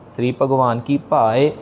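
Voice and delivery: पाए with the पा drawn out long; long paa. Shown as a demonstration. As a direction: stretch पा in पाए, keep ए short. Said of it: "पा को लंबा खींचना है". (पाए में पा लंबा खींचें)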